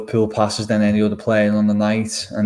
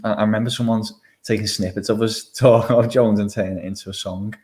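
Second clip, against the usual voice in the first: kind gentle laugh. Real, not acted. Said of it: "I'm just laughing".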